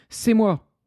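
loud, high proud claim; proud pirate. Acted. Pirate captain answering the prince, loud and proud. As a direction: step forward and claim it. Pirate chief steps forward.

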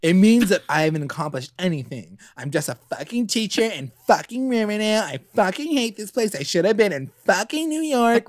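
hammed-up self-pity; mock Kevin rant. Mimicking Kevin complaining about Riverdale, hammed-up whine. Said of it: "He's like".

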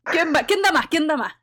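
loud, high auction call; calling out bids like an auctioneer. Pretend. Auctioning off the deadly quest.

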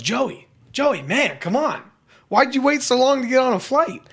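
high, pleading mock-drunk call; drunk guy. Drunk traveler pesters a man ignoring him, high imitated holler. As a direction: badger him like an overfamiliar drunk. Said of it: "And he goes".

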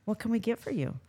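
lightly voiced friendly counter clerk; money voice. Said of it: "Gotta turn on that special voice".

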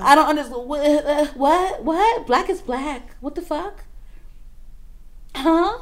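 high, loud disbelief; can't believe what she's hearing; incredulous. Real, not acted. Baffled by the race debate, loud incredulous disbelief.

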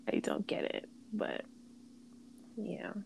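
muttered under her breath; whispering. Real, not acted. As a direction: whisper it to yourself.

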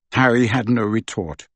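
usual speaking voice

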